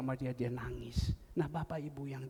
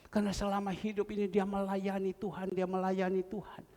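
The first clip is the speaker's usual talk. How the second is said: normal talking voice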